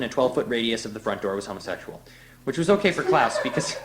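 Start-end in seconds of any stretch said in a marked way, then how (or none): 2.4-3.7 breaks into a laugh mid-sentence; can't keep a straight face. Real, not acted. Reader cracking up at own story, laughing.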